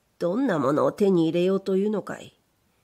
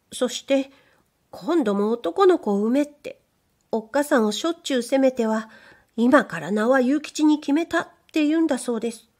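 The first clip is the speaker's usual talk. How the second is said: higher, bashful maid's voice; shy young maid; 5 semitones higher than usual. Acted. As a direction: play the timid young servant girl. Maid tells her father's story.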